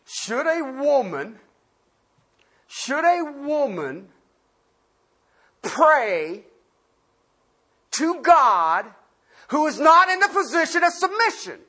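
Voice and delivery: slow, drawn-out "Should a woman" with rising pauses; slow emphatic question. Shown as a demonstration. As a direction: spell it out slowly for today. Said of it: "in a vernacular for today".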